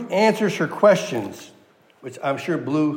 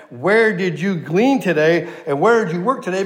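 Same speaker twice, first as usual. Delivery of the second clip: "Where did you glean today", higher, every word leaned on in amazement; overwhelmed inflection; 3 semitones higher than usual. Shown as a demonstration. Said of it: "put some inflection in that".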